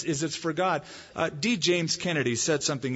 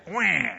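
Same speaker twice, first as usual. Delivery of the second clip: mock baby wail; 3 semitones higher than usual. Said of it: "I didn't go up to him and say".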